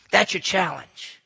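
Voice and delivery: said slowly, letting challenge sink in; slow, weighty challenge. Acted. Preacher repeating the challenge, slow and weighty. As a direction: lay it down slowly and heavily.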